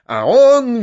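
shrill mock squeal. A narrator's reading. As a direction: shriek it out. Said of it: "визжал Фома".

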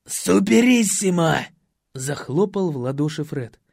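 loud exuberant praise; delighted host. A narrator's reading. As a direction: hand out the roles. Fred cheers and assigns.

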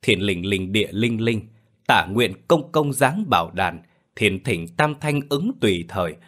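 rhythmic spell recital, rising toward the end; measured ritual chant, building in pitch; incantation read aloud. A narrator's reading. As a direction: intone it like an exorcist's spell. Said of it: "đọc lớn".

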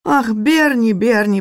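high, keening cry of the name; wailing lament. Acted. Maid laments over the cook, high wailing cry. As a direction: lament over her friend. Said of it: "причитала служанка".

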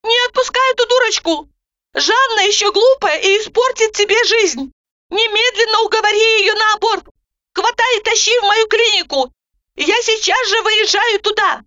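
high, forceful urgent orders; Roza, urgent. A narrator's reading. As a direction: command her at once.

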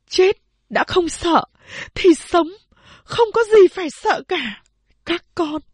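high, loud, firm declaration; rally the children with sudden resolve; resolute mother. A narrator's reading. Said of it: "nói". (mẹ quả quyết bảo các con, giọng cao và to)

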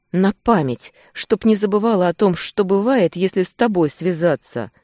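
woman lashing out at her mate, bitter and loud; stinging retort. A narrator's reading. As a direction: hit back where it hurts. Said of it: "Ужалила в ответ".

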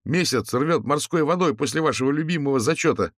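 high, strong ringing student voice. A narrator's reading. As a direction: let the voice grow firmer. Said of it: "Голос студента окреп".

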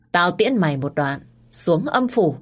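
menacing villain voice rising at the end; giọng ác độc. Acted. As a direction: gloat before the killing blow. Tên cướp giơ gỗ định giết. (tên cướp giơ cây gỗ, đe dọa giết cậu hai)

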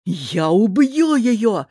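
slow, loud, raging threat; murderous rage. Acted. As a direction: spit out a killing threat. Brother rushes to kill. (в бешенстве, медленно и громко)

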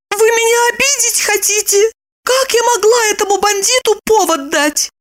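put-on high, offended girl's voice; taken-aback young woman. Lipochka, taken aback, answers Roman high and offended. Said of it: "Липочка оторопела".

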